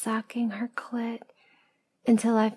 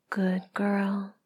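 whisper. Acted. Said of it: "You take a step towards me and whisper".

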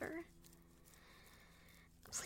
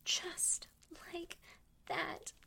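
broken whisper; slower than usual. Acted. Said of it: "same words, broken up".

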